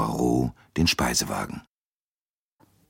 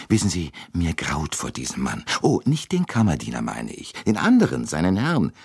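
put-on chatty older American lady; 2 semitones higher than usual. Mrs Hubbard confiding her dread.

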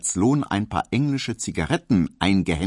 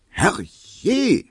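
high shrill-free cry of alarm; startled shout from inside; 13 semitones higher, 5 dB louder than usual. A narrator's reading. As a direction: call out through the door, high and loud. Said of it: "schrie Hedwig drinnen".

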